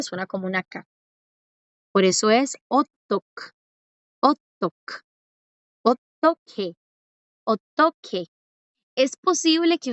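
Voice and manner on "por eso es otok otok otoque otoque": slow "otok, otoque" with a clear hard k; ideal pronunciation. Shown as a demonstration. Teacher showing students the ideal pronunciation, slow and careful. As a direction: model the ideal "otoque" slowly. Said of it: "suena con aire".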